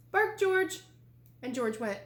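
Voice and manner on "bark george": bright, higher and louder mother voice; mother telling her puppy to bark; mother's command. A narrator's reading. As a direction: call it out like a patient mom. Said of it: "said George's mother".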